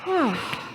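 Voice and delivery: short put-on yawn; staged yawn. Camp host up late last night, staged yawn. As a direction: yawn mid-thought, as if short of sleep. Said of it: "every time I yawned".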